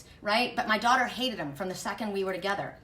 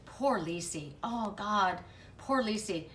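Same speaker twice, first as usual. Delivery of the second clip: mock pity; 4 dB quieter, slower than usual. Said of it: "the way he did it was this".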